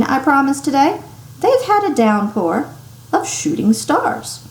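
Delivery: chirpy weather presenter; bright on-air banter; jovial weatherman. Acted.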